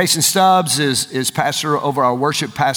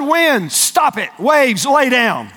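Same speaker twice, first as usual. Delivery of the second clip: Jesus; 8 semitones higher, much slower than usual. Acted. Acts Jesus commanding the storm.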